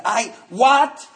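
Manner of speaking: high, loud disbelieving what; hearing he'll be taken to a clubhouse, high and incredulous; baffled what. Retold or imitated. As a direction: react as if it makes no sense.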